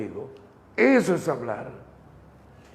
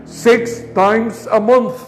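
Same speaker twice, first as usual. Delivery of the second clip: "month" stressed at a slow pace; emphasis on month; slower than usual. Shown as a demonstration. Teacher stresses the frequency so students copy it. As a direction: lean on "month" to mark the frequency. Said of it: "Enfaticen eso".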